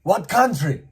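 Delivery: high, loud foreign-man voice; loud high mock of a stranger calling up; mimicking the man. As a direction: call it up to the window, high and loud. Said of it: "pointed at me and said".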